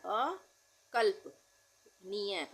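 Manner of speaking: अकल्पनीय stretched, half ल audible; drawn-out अकल्पनीय for writing; slow dictation. Shown as a demonstration. Teacher dictating a hard word, very slowly. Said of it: "आधे ल का उच्चारण हो रहा है".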